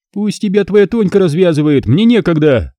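high, gloating taunts; openly mocking Alisa. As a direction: jeer at him, delighting in it. Alisa brushing him off.

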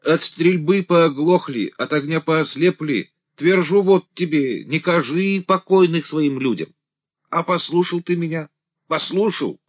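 high, loud, scolding cry; reproachful deacon. A narrator's reading. The deacon reproaches Andrey for not listening, high and loud. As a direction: rebuke him in a desperate shout.

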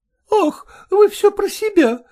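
a hint of a brisk, frank young lady; lightly voiced young woman. Young woman coolly tells her suitor to speak plainly.

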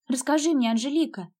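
ordinary delivery

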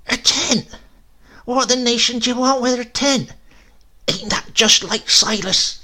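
put-on high, loud, sharp old woman's astonishment; tart astonishment. A narrator's reading. Grandmother scoffs at Silas's tent in tart astonishment. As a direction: cry out at the tent in disbelief. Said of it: "an exclamation of tart astonishment".

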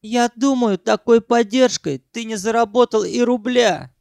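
high, sniffy; Sanyok's high voice. A narrator's reading. Sanyok scolding Ukhan about money. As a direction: talk down like a stingy boss.

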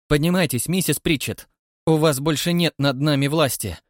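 loud, high, gloating summons; triumphant command. Acted. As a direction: crow it over the fallen woman. Rouses the fallen woman triumphantly.

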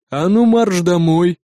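slow, stern boss order; gruff boss order. Acted. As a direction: send him home sternly. Boss orders him home.

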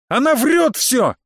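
put-on boy accusing his stepmother before his father; righteous angry shout. A narrator's reading. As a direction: yell it in hurt fury. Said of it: "крикнул я в порыве праведного гнева".

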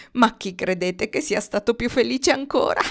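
put-on crow voice on the edge of laughter; gloating amusement. A narrator's reading. Crow reaches cruel punchline, gloating. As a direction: ask it gleefully, heading into a cackle.

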